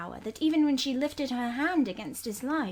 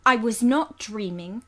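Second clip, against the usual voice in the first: a touch louder, nettled; some warmth; 7 dB louder than usual. Acted. Governess to the cool servant, mildly heated. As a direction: push back, provoked. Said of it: "with some warmth".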